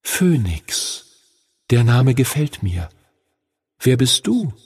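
a lightly voiced dragon, pleased; young dragon voice. A narrator's reading. Young dragon accepts its name from Henry, pleased. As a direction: savour the new name as a creature. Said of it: "Er senkte sein Haupt zu Henry hinab".

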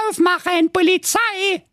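very high, loud police call; bang-on-the-door police shout. Acted. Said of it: "rief das Blaukäppchen".

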